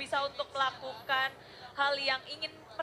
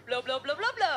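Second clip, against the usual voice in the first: alien voice. Pretend. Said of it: "Pantun pakai bahasa alien dong".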